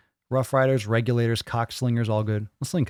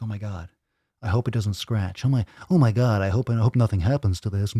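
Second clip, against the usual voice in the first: mock fretting. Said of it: "that's exactly how people sound".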